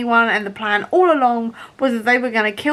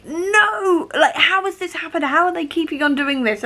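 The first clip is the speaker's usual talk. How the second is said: mock dismay; 6 semitones higher than usual. Imitating reader's dismay.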